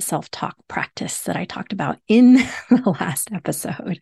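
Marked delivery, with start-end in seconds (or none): 2.1-4.0 brief real chuckle mid-phrase; amused, laughing through it. Real, not acted. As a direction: let a small laugh break into the words. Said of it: "I'm laughing because I wanted to".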